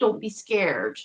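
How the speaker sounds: put-on American accent. Recounting what a man said to them online: quoting him in American accent. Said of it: "in an American accent".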